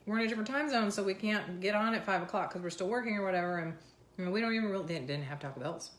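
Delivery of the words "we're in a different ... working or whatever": lightly voiced Canadians. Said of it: "they're like".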